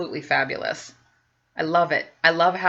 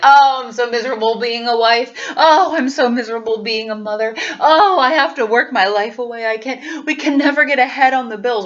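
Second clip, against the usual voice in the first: whiny complainer; 4 semitones higher, 7 dB louder than usual. Retold or imitated. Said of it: "be like".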